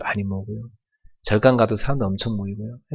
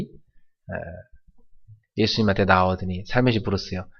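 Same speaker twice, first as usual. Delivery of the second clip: ordinary delivery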